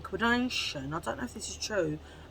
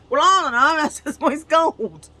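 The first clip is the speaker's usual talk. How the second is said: laughing; 7 semitones higher, 11 dB louder than usual. Pretend. Acted embarrassed reply, laughing.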